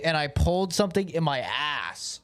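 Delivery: shaken, high and loud; scared horror game streamer. Real, not acted. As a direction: blurt it out still rattled. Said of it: "that jump scared me".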